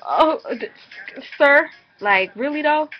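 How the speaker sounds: high, loud retold "sir, really though"; appalled disbelief. Vlogger replaying her reply to the clerk, high and appalled. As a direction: recoil at him, appalled.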